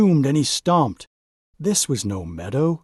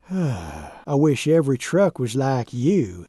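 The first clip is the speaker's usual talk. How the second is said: wistful sigh. Acted. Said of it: "he says with a sigh".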